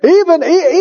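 ordinary talk, nothing marked

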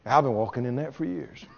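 a quiet, pretend-casual brag; mock nonchalant. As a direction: brush it off as old news. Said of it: "Act like".

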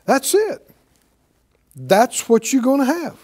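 the Lord's verdict. Retold or imitated. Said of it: "the Lord said".

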